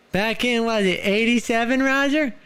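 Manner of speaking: put-on high creaky old man. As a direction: reminisce like an old timer.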